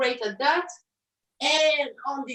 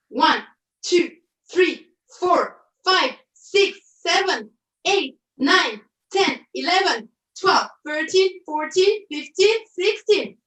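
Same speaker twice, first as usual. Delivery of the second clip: counting out loud; 4 semitones higher, 4 dB louder than usual. Real, not acted. Counting reps during exercise.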